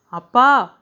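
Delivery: loud, high, drawn-out yell; screaming. A narrator's reading. Daughter summons father before the household, screaming. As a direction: holler for Dad. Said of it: "அவள் மீண்டும் அலறிய போது".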